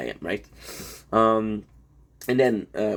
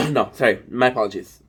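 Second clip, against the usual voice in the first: a sharp raised No; loud sudden correction; 5 dB louder than usual. Real, not acted. Catching his own spoiler, a sharp loud No. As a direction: stop yourself short, loud.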